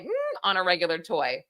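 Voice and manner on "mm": short, high mock "mm"; soft, high-pitched mimed hum; imitated zooming noise. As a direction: make a little high hum. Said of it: "I'm like".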